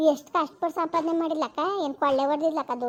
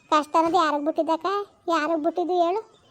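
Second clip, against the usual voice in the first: rising to a loud, fast angry shout; angry outburst; 6 dB louder, faster than usual. Acted. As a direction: lash out, louder with each line. Bitter quarrel about the sister. (ಕೋಪದ ಕೂಗು)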